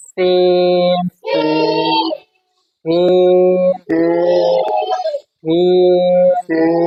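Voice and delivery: সিন with a hissing bird-chirp s; সিন said with a sharp chirping hiss; whistling s. Shown as a demonstration. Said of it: "এইভাবেই সুন্দর হয়".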